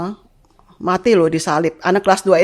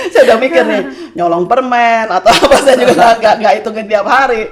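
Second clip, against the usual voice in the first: talking through laughter, louder; amused aside, laughing; 2 semitones higher, 4 dB louder than usual. Real, not acted. Laughing while telling the host about the sins.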